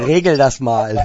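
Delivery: loud, with laughter either side; laughing mock order. Real, not acted. Interviewer joining the band's joke, loud and laughing. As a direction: call it out through your laughter.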